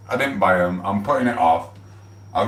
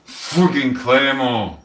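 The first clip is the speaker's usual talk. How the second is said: slow shout; 5 semitones higher, much slower than usual. Real, not acted. Shouting, hyping himself.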